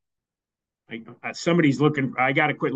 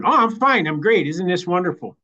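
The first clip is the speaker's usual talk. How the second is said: fake cheerful; 5 semitones higher than usual. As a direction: overdo how great everything is. Acted fake-cheerful reply to friends.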